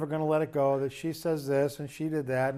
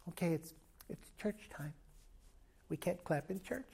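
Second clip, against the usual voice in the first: hushed, much softer mock-pious murmur; mock stiff churchgoer; 13 dB quieter than usual. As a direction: imitate a prim churchgoer, barely aloud. Churchgoers stiffly holding back applause.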